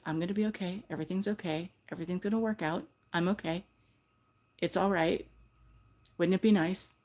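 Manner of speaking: quiet, calm talking herself down; soft self-reassurance. Retold or imitated. To herself in a money crisis, soft calming reassurance. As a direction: soothe yourself quietly through the panic. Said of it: "I'd be like".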